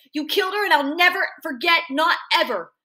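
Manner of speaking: high-pitched cry, easing down at the end; screaming. A narrator's reading. Boy screaming at his father, high accusing cry. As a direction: accuse him, then drive home the vow. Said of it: "all I can do is keep screaming".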